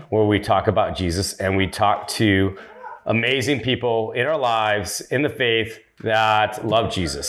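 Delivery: measured podcast welcome, phrase by phrase; projected host introduction with deliberate pauses; like opening a TV commercial; loud announcer intro. Real, not acted. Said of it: "you are so loud. ... not doing, like, a T V commercial".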